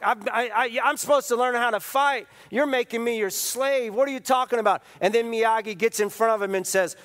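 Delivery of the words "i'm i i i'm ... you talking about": ticked-off Daniel. Retold or imitated. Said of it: "Daniel-san is ticked, man".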